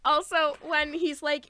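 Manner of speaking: ordinary delivery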